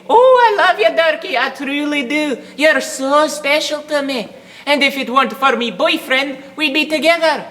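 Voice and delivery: high, simpering mock girlfriend voice; mocking a lass. Ex-girlfriend brushing Dirk off, high mocking simper. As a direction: simper it like an insincere ex. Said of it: "all the lasses I used to date saying".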